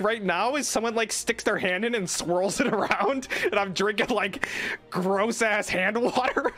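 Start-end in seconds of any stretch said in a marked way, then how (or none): 4.9-6.5 disgusted. Real, not acted. Disgust at touched water.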